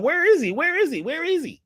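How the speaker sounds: high repeated question, easing in volume; retold hunt, pitched well up; frantic searching. Crowd looks for the missing musician before the show, mock frantic. Acting out everybody looking for him.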